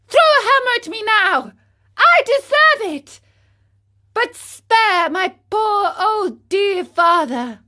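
high, loud tearful plea, crying on the last line; pleading through tears. Acted. Pinocchio begs the cricket to spare his father, sobbing. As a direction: beg forgiveness, voice breaking.

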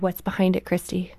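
gentle, hushed probing question; sweet counselor. Retold or imitated. Counselor to a crying client, sweetly probing. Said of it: "this sweet counselor".

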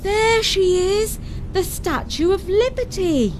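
put-on high, eager boy's call; boy spotting the Statue of Liberty, high excited call; calling out excitedly. A narrator's reading. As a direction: call out to the family with joy. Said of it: "Gabriel called out".

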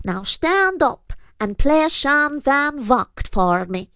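high, slow snarling command; a fairy creature ordering the lad about; snarled order. A narrator's reading. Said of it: "he snarled".

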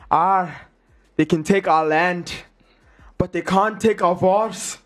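amateur Scottish accent, measured pace; imperfect Scottish impersonation with dramatic pauses. Shown as a demonstration. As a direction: attempt a rousing Scottish battle cry at speaking volume. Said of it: "I'll do a Scottish accent".

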